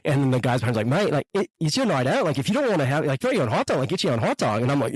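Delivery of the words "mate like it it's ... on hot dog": put-on light Australian accent, higher pitch; retold line in an Australian accent; imitated Australian accent. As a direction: put on a mild Aussie bloke. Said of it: "we're gonna cut the accent now".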